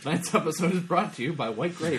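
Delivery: lightly voiced radio sponsor read; a touch of vintage announcer; old-time radio announcer. Host spoofing a sponsor read for white gravy, old-time announcer. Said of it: "The, the old-time radio stuff".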